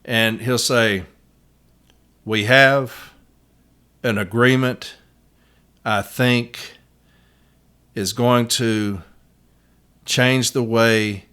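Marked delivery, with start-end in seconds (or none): 2.2-11.3 slow, choppy, even delivery with long gaps; imitating the postmaster's monotone, chopped into bits. Advocate mimics the postmaster testifying, in a choppy monotone. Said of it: "It's monotone, it's choppy".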